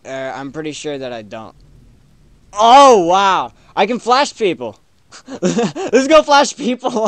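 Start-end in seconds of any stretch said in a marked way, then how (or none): 2.5-7.1 much higher, much louder, cackling with glee; giddy ghost. Acted. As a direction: squeal it like a naughty ghost. Ghost thrilled at flashing.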